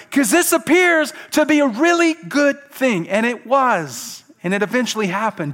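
high, loud, stretched-out emphasis; impassioned preaching. Real, not acted. Preacher stressing it appeared good, loud and emphatic.

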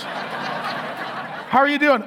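slow, drawn-out pitiful moan of a faked injury; milk a fake injury for sympathy; whiny fake patient; mock pained whimper. Faking injury for back rub.

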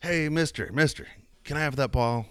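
put-on high, soft pleading kid; little kid voice. Little kid asking the stranger for the ball, high and soft. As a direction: beg like a small boy.

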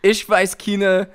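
halting mock German accent. Bearing a joke testimony at church, halting German accent. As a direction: grope for words in a German accent. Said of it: "I wanna hear your German accent now".

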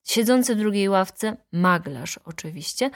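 plain reading voice

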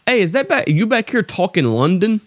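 high-pitched mock coworker voice; imitated coworker. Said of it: "and he's like".

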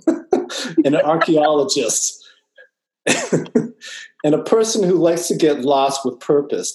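laughing through the words; words slowed by giggling; stifled giggles. Real, not acted. Host laughing through intro.

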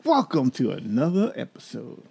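stretched, swooping host intro; show-opening greeting. Real, not acted. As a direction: sing out a big welcome, then settle.

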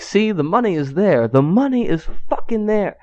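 high-pitched mock indignation; retold indignant insistence. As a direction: imitate an exasperated customer proving her point. Angry customer insisting to cashier.

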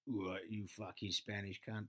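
slow, low mock tough girl; mock hard player. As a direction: growl it like a hulking player. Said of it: "The English girls were just like".

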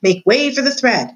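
crying out. A narrator's reading. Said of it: "cried a mouse".

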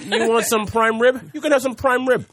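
put-on mild New York accent. Host offering the buffet in a light New York accent. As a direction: hawk prime rib like a New York counterman. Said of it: "saying this in, like, a New York accent".

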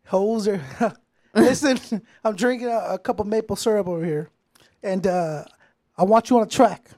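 lightly voiced Canadian pop star on the phone; a hint of a laid-back caller pitching a track; a singer. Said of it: "Okay, this, this is The Weeknd".

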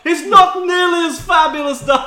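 very high, loud, fabulous villain; hammed-up camp dark lord; Voldemort. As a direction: shriek it out in a flamboyant falsetto. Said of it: "my Voldemort from last week".

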